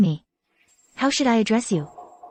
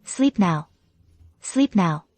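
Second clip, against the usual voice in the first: soothing lullaby voice; 4 semitones lower, much slower than usual. Acted. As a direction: hush a child gently to sleep. Mother lulling child to sleep.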